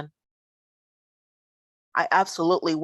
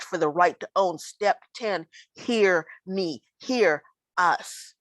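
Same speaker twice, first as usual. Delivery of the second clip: spoken word poem. Acted.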